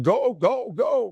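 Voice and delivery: high, loud go-go-go; urging shout. Retold or imitated. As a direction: send the team into a fight. Coach sending players to fight.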